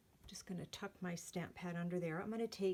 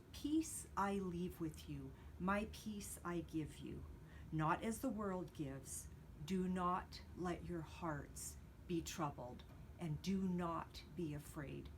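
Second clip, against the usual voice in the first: scripture reading. Acted. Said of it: "let me read that to you".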